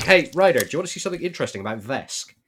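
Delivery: bright and fast, bursting to share; eager excited call. Acted. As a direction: call out eagerly, then rush it. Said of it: "he's like".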